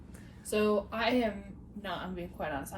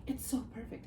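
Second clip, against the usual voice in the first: lightly imitated Minnesota accent; 2 semitones higher, 5 dB quieter than usual. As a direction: quote her in a slight Minnesota accent. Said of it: "It's in her Minnesota ascot-, accent".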